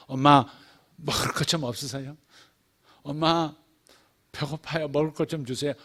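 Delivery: put-on softened, gentle child asking nicely; polite request. Child politely asking mom for food, gentle. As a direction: ask mom sweetly for food. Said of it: "공손하게 말하죠".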